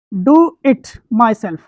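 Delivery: very slow, word by word; slow dictation. Shown as a demonstration. Teacher writing the example on the board, slow dictation.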